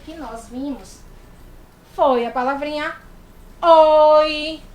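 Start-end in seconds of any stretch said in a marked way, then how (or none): 3.6-4.6 a loud, happy "oi"; friendly loud hello; cheerful greeting. Shown as a demonstration. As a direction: greet a classmate at school. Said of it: "que você vai dizer quando chegar na escola".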